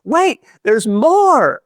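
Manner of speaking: big slow drawn-out pitchman voice; booming commercial pitch, high and loud; infomercial announcer. Retold or imitated. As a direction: sell it like a late-night TV ad. Repeats infomercial catchphrase.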